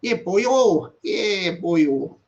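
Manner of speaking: lightly imitated Welsh catchphrase; a hint of put-on Valleys Welsh; mock Welsh accent. Streamer showing what the Welsh sound like, mock Welsh accent. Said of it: "you know, the Welsh".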